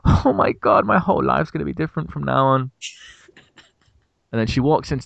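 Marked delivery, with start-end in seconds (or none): 0.0-2.7 high, excited mock gushing; imagined smitten customer. Imagining her introducing him to friends, mock gushing.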